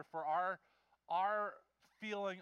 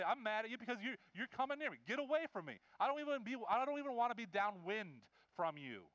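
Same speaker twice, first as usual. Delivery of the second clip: acted indignant rebuff, voice pitched up; 3 semitones higher than usual. Jesus imagined sending the leper away, indignant. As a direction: push them away with mild outrage. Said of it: "He should be indignant".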